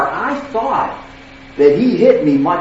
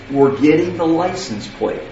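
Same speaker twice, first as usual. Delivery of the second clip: steady, unhurried and even; calm voice; 4 dB quieter than usual. Retold or imitated. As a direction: keep it level and composed despite the crash. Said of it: "I said it in a calm voice".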